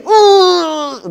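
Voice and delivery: loud, high yell with a laugh; cheering whoop; shout. Shown as a demonstration. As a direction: let a joyful yell burst out. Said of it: "Lúc thì hét lên".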